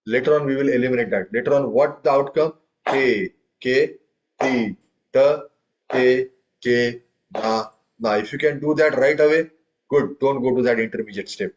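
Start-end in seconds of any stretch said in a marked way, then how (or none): 2.9-8.1 syllables spoken evenly in rhythm. Shown as a demonstration. Teacher demonstrating rhythm to class, steady syllables. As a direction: count out the syllables like a drum teacher. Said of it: "So I'm adding one half note".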